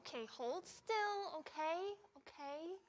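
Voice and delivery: soft, hushed soothing voice; calm a fidgety baby gently; soothing quiet voice. Acted. Parent with baby wipes.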